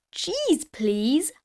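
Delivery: high first word, dropping to normal; Grampy Rabbit. A narrator's reading. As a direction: sing out the first word, then settle. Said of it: "Grampy Rabbit said".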